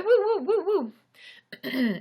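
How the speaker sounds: high, loud excited woo; excited cheer. Real, not acted. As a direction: cheer them on loudly. Cheering chat donors.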